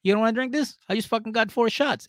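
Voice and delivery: put-on high pushy drunk offer; drunk pleading. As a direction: press the drinks, tipsy. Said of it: "Tanya's just like".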